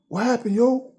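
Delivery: high-pitched mock bewildered question; puzzled friend. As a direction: imitate a clueless friend, pitch shooting up. Retold friend asking what happened.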